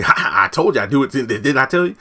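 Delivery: gloating laugh. Retold or imitated. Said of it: "he starts cackling".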